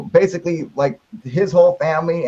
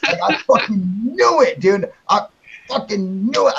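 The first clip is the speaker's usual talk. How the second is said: triumphant yell; 6 semitones higher than usual. Retold or imitated. Caller retelling his shout of being proven right, a triumphant yell. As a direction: relive the moment you were proven right. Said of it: "I started screaming".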